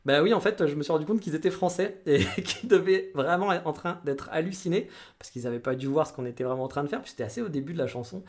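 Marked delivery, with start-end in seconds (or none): 0.6-4.9 laughing. Real, not acted. Laughing while recounting the anecdote.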